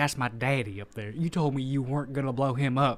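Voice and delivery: put-on Southern belle accent. Recapping a movie scene, quoting a woman in the control room, in a southern belle accent. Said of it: "She has a Southern accent now".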